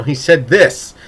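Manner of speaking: insistent, half-shouted protest; exasperated mock shout. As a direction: mildly shout it like an exasperated reader. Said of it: "I'm shouting at the other character".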